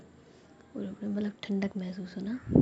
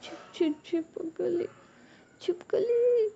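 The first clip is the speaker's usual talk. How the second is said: stammering in fright, climbing much higher and louder; panicked stammer; 10 semitones higher, 5 dB louder, slower than usual. Acted. Ruhi sees a lizard and shrieks to Jiya in panic. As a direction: choke out the word in terror.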